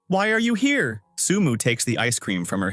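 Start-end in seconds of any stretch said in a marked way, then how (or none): 0.1-1.0 startled, pitched up high; girl shocked to find him in the lift, asking up high. Acted. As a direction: jolt of surprise at seeing him. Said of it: "Tian Tian is shocked to see him".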